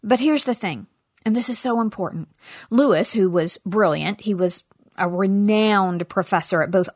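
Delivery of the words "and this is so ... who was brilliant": ordinary delivery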